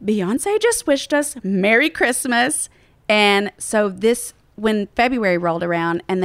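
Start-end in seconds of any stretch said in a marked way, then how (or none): 0.0-2.7 slow, awed and breathless; starstruck wonder. Retold or imitated. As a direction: say it like you can't believe it. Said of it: "And Elisa's like".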